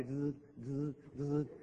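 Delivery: soft, slow mock buzzing noise; buzzing short circuit. Listener's brain shorting out, mock buzzing. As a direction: imitate crossed wires buzzing quietly. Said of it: "cruzarse los cables".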